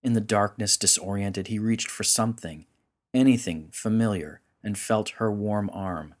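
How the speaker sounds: measured, dramatic storyteller's read; story narration. A narrator's reading. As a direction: narrate a solemn myth with deliberate phrasing. Narrates a story over music.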